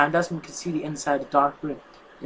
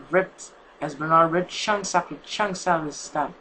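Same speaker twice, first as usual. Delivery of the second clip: ordinary delivery, nothing marked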